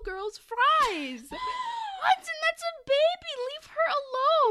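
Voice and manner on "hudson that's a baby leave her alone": high, loud shout at Hudson; mock scolding. Telling Hudson off for stealing a baby's fries, in a high loud shout. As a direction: scold him like a horrified parent.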